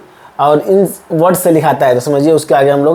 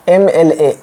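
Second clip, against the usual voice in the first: slow letter by letter; much slower than usual. Shown as a demonstration. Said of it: "ए से लिखा है".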